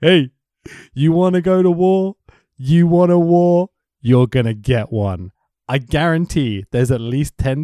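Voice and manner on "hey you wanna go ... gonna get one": put-on half-done accent, raised promo challenge; Scott Hall. Wrestler promising a war, half-done accent. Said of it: "I'm half doing the accent".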